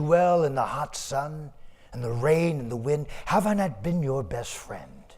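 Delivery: sorrowful ox. Acted. Ox answers his master sorrowfully.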